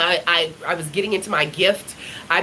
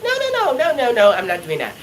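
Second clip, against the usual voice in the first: panicked refusal; 2 semitones higher, faster than usual. Retold or imitated. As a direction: back away, flustered and pleading. Refusing to stand and speak.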